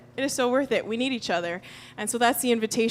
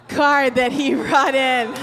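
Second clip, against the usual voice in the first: laughing; 4 semitones higher, slower than usual. Real, not acted. Laughs at child's card.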